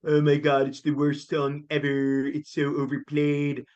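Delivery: lightly voiced snobbish fan complaint; a hint of a know-it-all cartoon nerd; mild impression of a griping superfan; Comic Book Guy. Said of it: "pull the comic book guy from The Simpsons".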